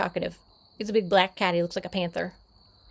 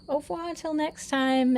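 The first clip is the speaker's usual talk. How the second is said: mock French; 8 semitones higher, 5 dB louder than usual. French-style sign-off.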